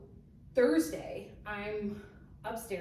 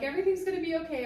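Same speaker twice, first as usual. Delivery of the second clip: high, rapid mock comforting; hasty reassurance; 8 semitones higher, 4 dB louder, much faster than usual. Wife obliging her upset husband on demand, hurried imitated reassurance. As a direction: rattle off a quick, high-pitched reassurance. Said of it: "tell me everything's gonna be okay".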